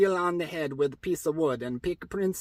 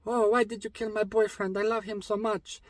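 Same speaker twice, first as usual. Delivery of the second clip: higher-pitched princess voice, mock distress; hammed-up heartbroken princess; lamenting princess; 4 semitones higher than usual. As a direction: plead in a put-on high voice. Princess laments her killed boyfriend.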